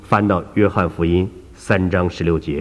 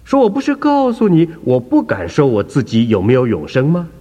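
put-on higher, anxious elderly believer; a raised, flustered old lady; flustered old woman; 6 semitones higher, 3 dB louder than usual. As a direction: get worked up and repeat yourself. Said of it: "这位妇人就急了".

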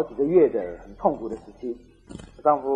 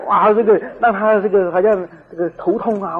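higher, slow joking plea for punishment; laughing mock prayer; 4 semitones higher, 5 dB louder than usual. Imagined Christian asking God for punishment, mock and laughing. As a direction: grope for a punishment, amused.

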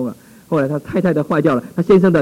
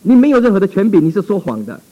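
loud, high defiance; defiant shout; 4 semitones higher, 5 dB louder than usual. Retold or imitated. Pastor defying the demon, shouting. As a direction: shout down the lying spirit.

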